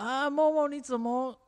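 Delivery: put-on squeaky high girlish baby voice. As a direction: mimic a whiny baby-voiced girl. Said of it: "她的声音又很娃娃音，我应该可以重现一下".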